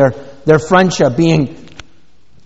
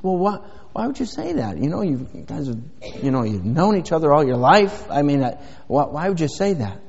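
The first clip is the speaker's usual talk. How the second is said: gentle parent; 6 dB quieter than usual. Retold or imitated. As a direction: draw the child out softly, like a patient dad. Parent gently questions glum child.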